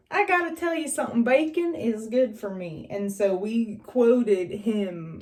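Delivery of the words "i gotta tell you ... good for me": high, fast mock Curtis voice; lightly voiced redneck quote; quoting Curtis. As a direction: rattle it off as a hick TV dad. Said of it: "and he's like".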